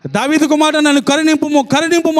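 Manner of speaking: high pleading shout rising to the end. Acted. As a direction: cry out harder over the crowd. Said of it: "అంత గట్టిగా అరుస్తాడు".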